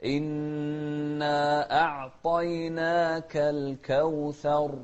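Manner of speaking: slow measured tajweed chant; slow Quran recitation. Shown as a demonstration. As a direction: recite slowly with drawn vowels.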